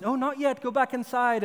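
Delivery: mother's mild warning. Retold or imitated. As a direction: mildly shoo a child back in. Mother gently sends daughter back.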